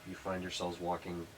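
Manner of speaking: scene-setting narration. Acted. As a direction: paint the chamber for the players. GM sets the dungeon scene.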